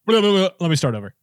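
fast garbled babble, then a restart; tongue-tied restart. Shown as a demonstration. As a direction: demonstrate tripping over words and beginning afresh. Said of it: "whenever you're speaking like that".

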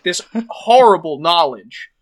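storyteller painting a dark hospital room; game master scene setting. Acted. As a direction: set a grim scene for the players. The speaker opens the game scene.

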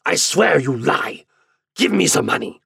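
high, loud, impassioned accusation; furious demand. A narrator's reading. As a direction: demand it in a rage. Father furiously accuses son, demands money.

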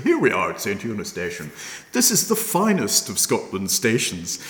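imitating a stiff 1950s newsreel voiceover; 1950s narrator. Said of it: "terribly nineteen fifties kind of voiceover".

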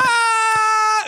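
high piercing scream. Acted. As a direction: let out a sudden shrill scream. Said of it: "It would just be us screaming".

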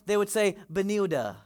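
Benilda said in place of vanilla; the kids' word Benilda, as the toddler said it; childish mispronunciation. Retold or imitated. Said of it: "they couldn't say vanilla".

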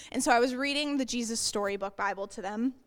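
fast breathy whisper; hurried whispered aside. Real, not acted.

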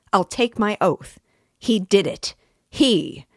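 rising outrage, loud and high; loud, high agitated outcry. A narrator's reading. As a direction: declare it to the room, agitated. Lebziatnikov proclaiming to all.

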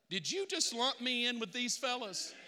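a light Georgia redneck twang, half-joking; Georgia redneck accent. Retold or imitated. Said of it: "Let me give you Georgia Redneck".

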